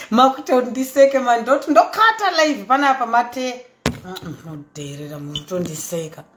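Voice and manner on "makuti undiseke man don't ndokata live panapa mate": laughing. Real, not acted. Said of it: "Don't laugh".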